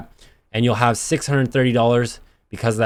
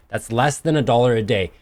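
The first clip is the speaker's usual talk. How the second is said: infomercial pitch. Acted. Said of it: "I sound like an infomercial".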